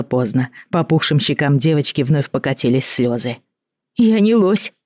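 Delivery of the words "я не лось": sniffling. A narrator's reading. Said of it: "Катя зашмыгала носом".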